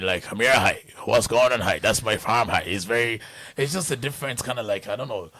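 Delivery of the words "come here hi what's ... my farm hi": loud rural Irish farmer's accent; Irish countryside accent. Shown as a demonstration. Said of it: "or you go to the countryside".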